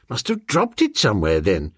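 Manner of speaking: lightly voiced master, quick then dropping low; musing gentleman. Master shrugging off his lost case to his valet, musing. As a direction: toss it off, sinking on the last word.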